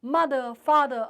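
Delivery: a hint of a child's shriek in a story reading; mild read-aloud shriek. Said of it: "shrieked at the highest pitch of his voice".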